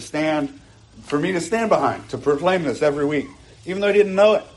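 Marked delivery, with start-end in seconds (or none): 3.6-4.4 excited preaching. Real, not acted. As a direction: build the energy, rushing ahead. Preacher building to a climax.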